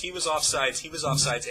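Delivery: mock yell, half-hearted this time; a toned-down echo of the fan's protest; retold scream. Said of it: "as I'm screaming at the top of my lungs".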